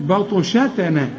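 بطشتنا with thin ba, sheen and ta; light letters. Shown as a demonstration. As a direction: say بطشتنا light except the heavy ط. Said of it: "رقق". (بطشتنا مرققة ما عدا الطاء)

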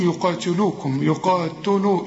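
"يقاتلوكم" with the t wrongly rounded to "tu"; wrong ta vowel. Shown as a demonstration. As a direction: round the vowel after t as a mistake. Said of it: "شوف، خطأ".

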